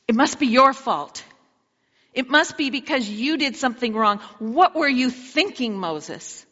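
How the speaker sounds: jab the blame at Moses, then drop on his name; accusing Moses. Acted. Israelites turn on Moses, a pointed accusation. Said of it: "Kind of sarcastic questions, but they're pointed".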